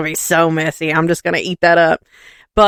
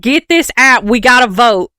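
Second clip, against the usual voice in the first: excited command; 4 semitones higher, 4 dB louder than usual. Retold or imitated. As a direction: urge him on, hammed-up eagerness. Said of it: "And I was like".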